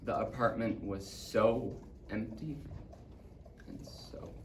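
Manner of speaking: slow fade almost to a whisper; hushed, desolate. Acted. Boy recalling the empty apartment, hushed. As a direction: let the last words die away softly.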